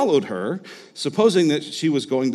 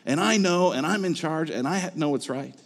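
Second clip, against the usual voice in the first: accusing god; 4 semitones higher than usual. Shown as a demonstration. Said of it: "in a way that says".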